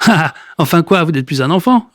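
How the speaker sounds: mocking laugh, then scornful words; a light mocking snicker from the neighbour; sneering chuckle. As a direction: snicker at the old man. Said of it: "ricane le voisin du milieu".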